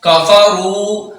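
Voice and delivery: slow, drawn-out Arabic recitation; Quran recitation. Shown as a demonstration. Quran teacher recites Arabic to students slowly. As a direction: recite the word slowly, letter by letter. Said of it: "रा को दो हरकत के बराबर लंबा करेंगे".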